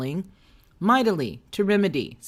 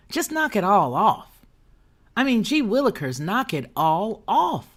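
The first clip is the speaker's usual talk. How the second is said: louder exasperated repeat; 4 semitones higher, 3 dB louder than usual. Shown as a demonstration. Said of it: "And I just wanna say".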